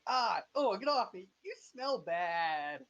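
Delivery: put-on high, loud protesting child; little girl. Little girl fending off her attacker, high loud protest. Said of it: "the little girl's like".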